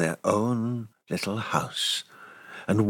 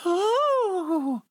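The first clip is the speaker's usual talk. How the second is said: startled oh. Acted. Startled cry in story.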